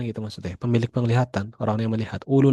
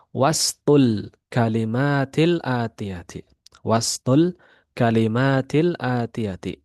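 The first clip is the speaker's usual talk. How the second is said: slow reading; slower than usual. Shown as a demonstration. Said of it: "reads Arabic rule slowly".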